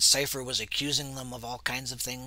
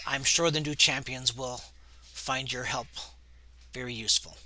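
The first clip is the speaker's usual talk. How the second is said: dry, cold and flat; coolly dismissive, no emotion; deadpan. Acted. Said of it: "it's more in a deadpan, um, voice".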